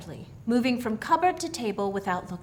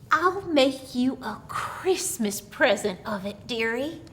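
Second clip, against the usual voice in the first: put-on old country woman; 3 semitones higher than usual. Old woman coaxing the girl Mary with her strange gift. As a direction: speak as a knowing old crone with a secret.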